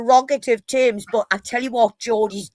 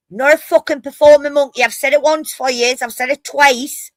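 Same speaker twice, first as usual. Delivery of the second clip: higher, indignant retold protest; exasperated refusal; 4 semitones higher, 3 dB louder than usual. Geordie refusing outsiders who want the saying repeated, exasperated. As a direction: refuse as if fed up with performing.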